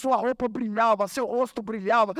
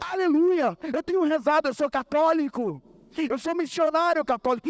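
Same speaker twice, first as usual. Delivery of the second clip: higher-pitched, eager declaration of faith; eager testimony; 4 semitones higher than usual. Retold or imitated. Patient eagerly telling the doctor of his faith, fervent. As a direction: answer with fervent, rising zeal.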